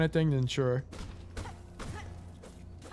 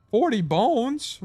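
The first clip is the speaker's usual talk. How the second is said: shocked; 9 semitones higher, 5 dB louder, much slower than usual. Real, not acted. Shocked at the price.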